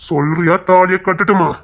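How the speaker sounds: slow, pointed threat; slow pressing demand. Acted. Man pushing the woman to choose, slow and menacing. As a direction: drag out the ultimatum.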